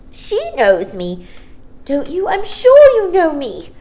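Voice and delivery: put-on bright, very high little girl pleading; a small star-child begging to be remembered. Child pleading with Mary Poppins, high little girl voice. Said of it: "The child seemed very surprised".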